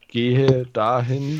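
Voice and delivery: langsam gesprochene Wichtelstimme; tiefe Stimme. Acted. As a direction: eine Spur tiefer Wichtel. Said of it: "tiefe Stimme". (langsam, leicht tiefe Wichtelstimme)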